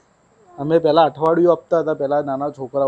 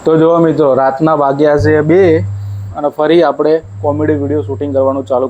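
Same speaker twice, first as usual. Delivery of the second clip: loud, slowed-down announcement to viewers; booming vlog hello at two a.m; loud announcing; 6 dB louder than usual. Real, not acted. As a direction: call it out to the audience. Late-night vlog announcement to viewers.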